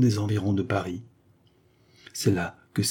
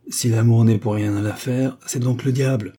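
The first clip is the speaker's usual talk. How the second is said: exclaiming; 3 semitones higher, 5 dB louder than usual. Acted. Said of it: "s'écria Maxou".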